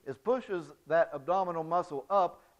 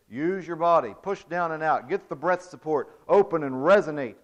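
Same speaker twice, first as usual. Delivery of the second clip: louder, full-bodied instructions to singers; projected coaching voice; 6 dB louder than usual. Shown as a demonstration. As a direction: project each command from the body. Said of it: "You say".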